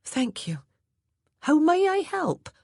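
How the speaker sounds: put-on a plain-spoken old housemaid reporting orders; Hattie the maid's voice. A narrator's reading.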